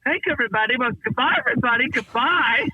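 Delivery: lightly voiced dopey millionaire saying goodbye; Mr. Canby farewell. Showing his old sketch to a friend, dopey sing-song goodbye. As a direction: wave off the room like a happy fool. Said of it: "He goes".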